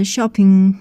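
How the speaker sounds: شاپینگ ending in a nasal ng; nasal ING ending. Shown as a demonstration. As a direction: let the end of شاپینگ ring in the nose.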